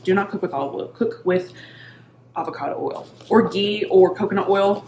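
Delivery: flat, firm no-nonsense warning; firm correction. Retold or imitated. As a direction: set them straight, matter-of-fact. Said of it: "I'm like".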